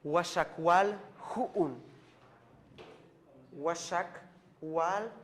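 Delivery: teacher stretches out "Washakwal Hu'un" syllable by syllable, slowly; slow modeled pronunciation. Shown as a demonstration. Teacher to students learning Maya, slow clear modeling. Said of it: "teacher models Maya number".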